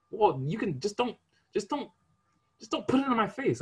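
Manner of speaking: very high mock insistence; very high mock relative. Mimics relative.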